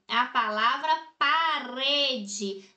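parede said slowly, leaning on the syllable re; teacher stretching parede to show the stressed re; slow stressed example. Shown as a demonstration. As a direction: spell out parede slowly for the class, hitting re. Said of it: "o re".

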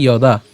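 "যদা" begun with a y sound, low; Sanskrit pronunciation demo. Shown as a demonstration. Teacher showing how the first word is pronounced, "যদা" as ya-daa. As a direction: say "যদা" as ya-daa, long last vowel. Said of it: "এর উচ্চারণটা কেমন হবে".

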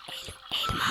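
whispered so others can't hear; whispering while hiding. Real, not acted. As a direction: hush it secretly. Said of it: "Hadi kulaklarını kapat".

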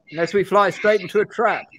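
put-on high-pitched, urgent young magician; Benedict Cumberbatch. Young magician warning of towns lost to war, Cumberbatch impression. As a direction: play a grave character, pitched well up. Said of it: "this is Benedict Cumberbatch playing this character".

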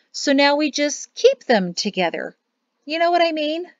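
middle-aged woman explaining. A narrator's reading. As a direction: explain it to a guest, lightly in character.

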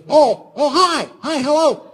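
high, squeaky cartoon-mouse greeting; Mickey Mouse. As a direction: greet in a tiny falsetto. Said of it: "He sounded like Mickey Mouse".

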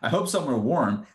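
light, quick and chummy; friendly casual question. Retold or imitated. Joseph imagined asking his brothers casually, light and quick. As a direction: ask it like small talk with a friend. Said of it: "But he didn't just ask them".

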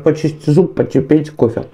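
ordinary talk, nothing marked

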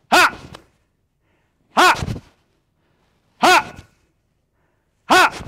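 short, high, explosive "ha"; punchy kihap shout on each strike; martial arts yell. Shown as a demonstration. Instructor cueing the class to switch punches, yelling. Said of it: "So when I yell".

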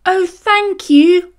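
high, loud grateful bee; overjoyed bee thanks the sheep, high and loud; buzzing thanks. A narrator's reading. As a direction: gush your thanks. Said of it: "Fuzby buzzed".

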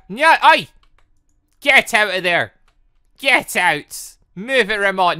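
loud, sharp calls to get out of there; shouting at Ramon. Real, not acted. Player yelling at villager Ramon to get out, loud. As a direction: chase the villager out, loud and annoyed.

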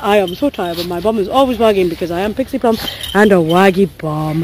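low, lightly voiced tired dog; Pixie. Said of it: "She's like".

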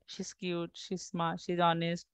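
teacher shows how to read the drill quietly, murmured; reading under breath. Shown as a demonstration. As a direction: read it half aloud, as if in your head. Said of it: "মনে মনে পড়বেন".

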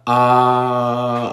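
short, lax ah. Shown as a demonstration. Teacher shows the short lazy a sound. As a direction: say ah briefly, mouth half closed. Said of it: "una A bien cortita".

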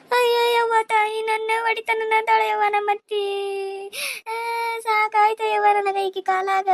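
hammed-up sobbing complaint, pitched high; fake wailing. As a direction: wail like a wronged daughter-in-law putting on a show. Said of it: "ಏನ್ ಅಳುತ್ತಾರ, ಏನ್ ನಾಟಕ ಮಾಡಿ?".

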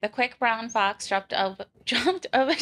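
American accent. Shown as a demonstration. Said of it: "You do a good American accent".

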